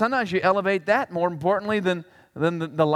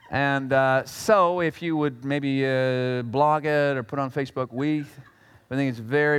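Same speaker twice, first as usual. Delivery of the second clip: a timid wounded Pharisee asking for an apology; hurt, halting, self-righteous; mock spokesman; 5 semitones lower than usual. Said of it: "one of the wolves walks out and says this".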